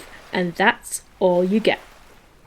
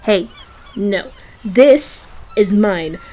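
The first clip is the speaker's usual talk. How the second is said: scolding; 5 dB louder than usual. Real, not acted. Scolding a seagull.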